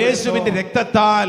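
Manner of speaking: loud, measured call for repetition; preacher's loud call-and-response; loud declaration. Real, not acted. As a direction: proclaim it for the congregation to echo. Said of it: "ഒച്ചത്തിൽ പറ".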